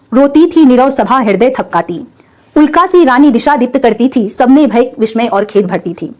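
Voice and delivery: measured verse reading, each line rounded off; poem recitation. Acted. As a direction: recite the couplets evenly, pausing at line ends. Recites the poem before explaining it.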